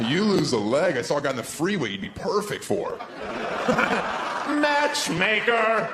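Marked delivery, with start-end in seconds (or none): 3.0-5.9 exclaim. Real, not acted. Exclaiming with a laugh.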